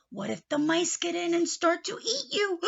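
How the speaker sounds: playful alarm for the hat; mock worry. Uncle fearing mice eating his hat, mock alarm.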